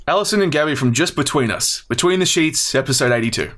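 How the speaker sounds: a hint of a scripted intro read. Shown as a demonstration. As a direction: lightly read it out like an audio recording. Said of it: "script voice".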